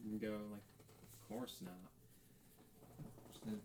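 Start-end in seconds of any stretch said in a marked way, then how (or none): 1.0-1.9 scoffing. Acted.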